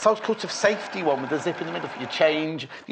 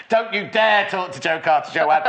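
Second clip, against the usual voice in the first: mock scolding; 2 semitones higher, 4 dB louder than usual. Host jokingly scolds co-presenter.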